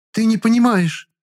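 hurt woman. A narrator's reading. Quarrel, Klara.

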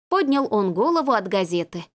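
ordinary delivery, nothing marked

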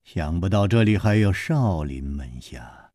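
whispered slowly, unvoiced; a slow sinister whisper. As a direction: breathe it out slow and menacing. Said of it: "缓缓地说".

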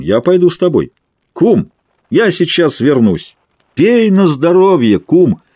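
put-on drunk voice. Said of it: "пьяным голосом".

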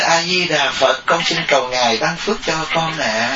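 suddenly all meekness before the Buddha statue; gentle pious prayer. Retold or imitated. Woman switching from scolding to praying before the Buddha, mock pious. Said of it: "cái là bà nhẹ nhẹ".

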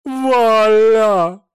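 loud, high, desperate cry for help; piercing cry for help; desperate scream. Acted. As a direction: scream for your husband. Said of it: "отчаянно закричала женщина".

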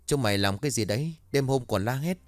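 fast, annoyed guard voice; grumpy guard. Acted. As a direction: scold the kids, rushed. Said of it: "chú bảo vệ hôm trước đi ra rồi hỏi".

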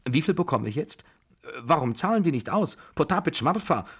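high, loud, eager questioning; agitated old lady's clamour; impatient excited demands. A narrator's reading. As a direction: demand your winnings, calling for the servants. Excited winner calling for servants.

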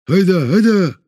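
high, loud cheering on; excited shout. A narrator's reading. Prisoners backing the call to run, loud shout. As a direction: whip up the crowd. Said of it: "поддержало ещё несколько человек".

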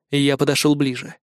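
usual speaking voice

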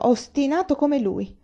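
mother protesting to her stubborn son. Acted. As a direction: drag it out in reproach. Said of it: "protestò".

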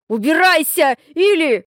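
put-on boy yells at them to go; angry shout. A narrator's reading. Hurt boy yells at the girl to leave, angry. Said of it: "кричит он".

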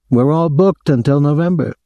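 high-pitched, aggrieved hotel official; aggrieved man. A narrator's reading. Hotel man phoning a guest about his visitor, aggrieved. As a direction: put on a high, officious voice of complaint.

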